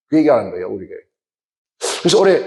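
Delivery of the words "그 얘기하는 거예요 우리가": ordinary talk, nothing marked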